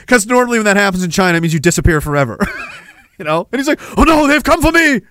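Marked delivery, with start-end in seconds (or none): 4.0-5.0 high, loud cartoon panic; mock terrified. Man fears being disappeared by cops, hammed-up terror. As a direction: wail it like a doomed man. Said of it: "He was terrified".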